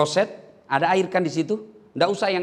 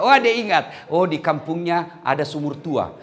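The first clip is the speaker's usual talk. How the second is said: ordinary talk, nothing marked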